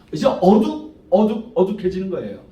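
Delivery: normal talking voice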